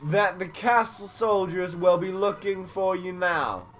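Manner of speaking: village elder voice. Acted. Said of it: "my voice changed again".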